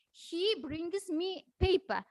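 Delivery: slow example sentence, "paper" stressed at the end. Shown as a demonstration. Student shows teachers sentence stress, "paper" stressed last. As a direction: put the strongest stress on the last word, "paper". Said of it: "the most strong stress".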